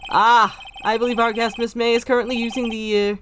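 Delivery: high, eager hotel bellboy; bow and greet like a proper bellhop; chirpy old-fashioned bellhop. Acted. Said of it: "I am the bellboy".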